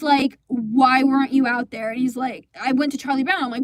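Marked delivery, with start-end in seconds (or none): 0.5-1.9 angry demand. Retold or imitated. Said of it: "fuming. I was so pissed".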